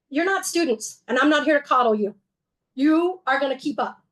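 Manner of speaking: quoting a tough professor's no-coddling line; stern mentor. Retold or imitated. A group of tired travellers hears their tough guide. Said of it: "He very gently said".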